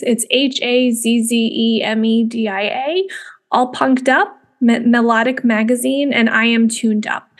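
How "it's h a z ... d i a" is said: "H A Z Z E M E D I A" said as separate letters, one by one; spelling it out. Shown as a demonstration. Podcast host spells a magazine name for listeners, letter by letter. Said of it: "I'm not sure if it's Hazz or Haze".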